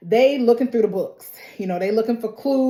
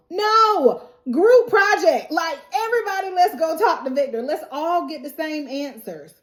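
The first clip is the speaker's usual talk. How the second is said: mock exasperated; 6 semitones higher than usual. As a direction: insist like a fed-up teacher. Mock scolding Henry, all go.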